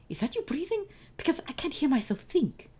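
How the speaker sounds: high, whispered gripe; grouchy Oscar voice. Acted. Oscar complains about the breathing, high grouchy gripe. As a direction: hiss it out, annoyed.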